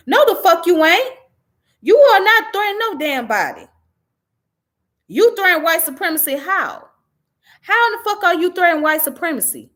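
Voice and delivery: tearing into her words in outrage; angry outburst. Real, not acted.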